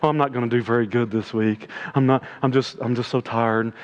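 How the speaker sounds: a mocking whimper of an excuse; mimicking mediocre athletes, mock whiny. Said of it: "pride tells them to say".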